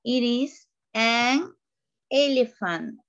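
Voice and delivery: It is an elephant said slowly, word by word; slow modelling. Shown as a demonstration. Teacher to students after the clip, slow model answer. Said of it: "do you listen?".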